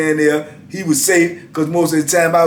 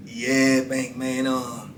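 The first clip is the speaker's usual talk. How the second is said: pleading friend; 3 semitones lower, 8 dB quieter than usual. Retold or imitated. Friend begging for his money back.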